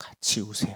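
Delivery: soft, hushed, unvoiced whisper.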